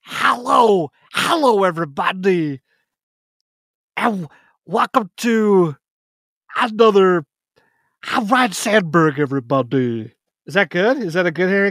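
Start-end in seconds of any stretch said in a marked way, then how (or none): 0.0-0.9 a high, drawn-out Harry Carey "Hello". Pretend. Host greeting listeners as Harry Carey, hammed-up. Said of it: "I do the worst Harry Carey impersonation". 1.1-10.1 Harry Carey impression. Host opening his podcast as Harry Carey, hammed-up announcer voice. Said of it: "I do the worst Harry Carey impersonation".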